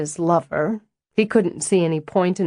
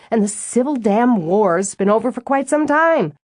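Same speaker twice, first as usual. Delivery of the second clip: riled up; 2 semitones higher than usual. Acted. Stella, fed up with being called the Yankee, getting riled. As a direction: vent it, winding up until it bursts out. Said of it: "looks to me like you loosen up just fine when you get riled enough".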